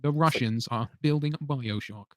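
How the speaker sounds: slow, nasal mimicry of Az; Az impression. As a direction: put it in your nose like Az. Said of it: "Great Az impression".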